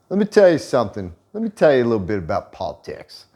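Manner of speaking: cocky lecturing. Pretend. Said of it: "I'm like".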